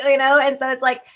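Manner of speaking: ordinary delivery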